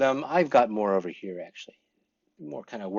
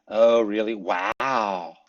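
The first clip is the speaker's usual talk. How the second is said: demo of surprise; much slower than usual. Shown as a demonstration. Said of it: "show surprise".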